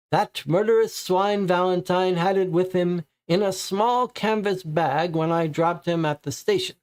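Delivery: high, anxious suspect voice; nervous suspect. Acted. Papineau answers the police, as a high nervous suspect. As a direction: play the frightened informer, pitched well up.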